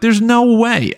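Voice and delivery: retold shocked disbelief, voice high; stunned disbelief. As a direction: pitch jumps way up in incredulous surprise. Disbelief at infection news.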